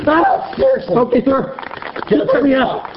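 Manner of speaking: strained, breathless pleading; gasping for air while pinned; wheezy voice. Real, not acted. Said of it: "I can't breathe".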